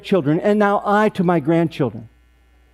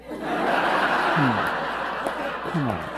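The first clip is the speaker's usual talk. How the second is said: laughing; 5 semitones lower, 8 dB quieter, much slower than usual. Real, not acted. Teller laughing at own joke.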